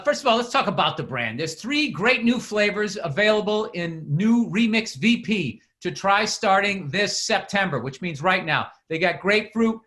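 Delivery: lightly announced product copy; mildly punchy podcast ad delivery; sponsor ad read. Acted. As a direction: read out the flavors like a casual pitchman.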